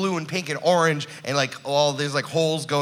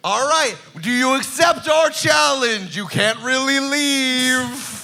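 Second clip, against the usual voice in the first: kraken voice; 8 semitones higher, 3 dB louder, slower than usual. Acted. Kraken challenges players.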